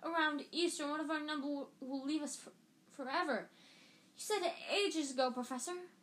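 put-on gushing girl. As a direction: squeal it to the teacher. Lavender gushing to teacher.

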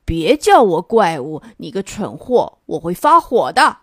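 angry yell at the neighbour monster; angry shout. Acted. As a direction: bark out a hammed-up warning. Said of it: "西边的怪物生气地喊".

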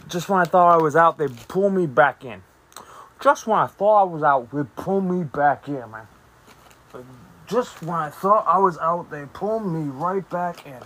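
a hint of a New Jersey mobster accent; fake Jersey accent. Podcast host quoting the mob line in fake Jersey accent. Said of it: "your fake Jersey accent".

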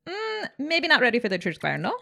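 put-on light teasing Italian accent. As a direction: rib the crowd in an Italian accent. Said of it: "with my Italian accent".

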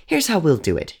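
lightly voiced girl laying down the rules; a hint of a scheming child; bossy ghost girl. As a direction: start the game like a little ringleader. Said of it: "she began".

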